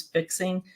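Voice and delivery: fixing said without to; fixing cut down to one word; shortened form. Shown as a demonstration. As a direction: drop the to after fixing. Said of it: "shorten our words a lot".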